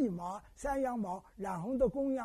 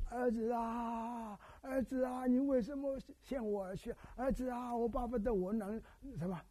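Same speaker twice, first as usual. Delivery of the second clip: mother's wailing lament; 3 semitones higher than usual. Retold or imitated. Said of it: "他从半夜哭". (慢慢模仿母亲的哀哭)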